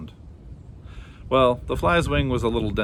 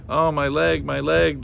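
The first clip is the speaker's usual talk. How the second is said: whine; 5 semitones higher, 5 dB louder, slower than usual. A narrator's reading. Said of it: "the flea whined".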